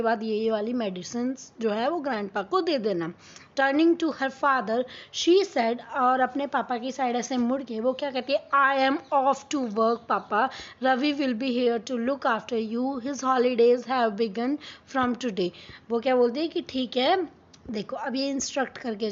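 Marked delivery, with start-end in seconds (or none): 3.6-15.5 slow, careful read-aloud of the English text; story reading. Acted. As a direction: read each word out slowly for the class. (धीमी आवाज़ में कहानी पढ़ना)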